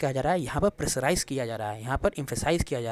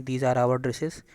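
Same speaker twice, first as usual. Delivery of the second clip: very slow, each word spaced out; slow dictation; much slower than usual. Shown as a demonstration. Teacher reading an example sentence to students, very slow. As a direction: read the example word by word for the class. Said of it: "दूसरे sentence में देखें".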